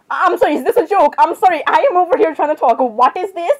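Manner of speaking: exasperated, half-yelled complaint; mild screaming. Acted. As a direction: raise your voice in high-pitched disbelief. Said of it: "stop screaming so loud".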